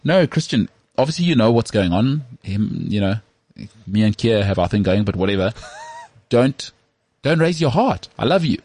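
put-on wife teasing Christian in a mild Danish accent. Wife reassuring her husband, lightly Danish-accented. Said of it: "She's doing it in a Danish accent".

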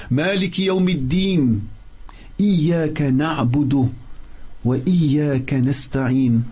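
rapid, flowing recital of the verse; quick Arabic recitation; quick Quran recitation. Acted. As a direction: recite it fast and fluent from memory. Fatiha recitation.

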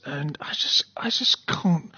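whispered, at a loss for words; words fail her, barely voiced; breathless whisper. Real, not acted. Host shaken by killing, whispering in dismay. Host overwhelmed recalling the murder.

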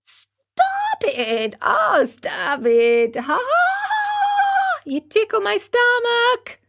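very high, squealing giggle; a tiny voice giggling as it is tickled. Acted. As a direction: laugh helplessly like a tickled child. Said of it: "This time it giggled as it spoke".

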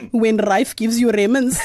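low mock East Asian accent. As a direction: read a listener's joke in a put-on accent, pitched low. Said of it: "Gary laughs says".

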